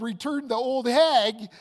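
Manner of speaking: loud, slow, stunned blurt; shocked yell. Retold or imitated. Groom shocked to find his fiancée, loud stunned yell. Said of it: "so flabbergasted and so shocked that I said".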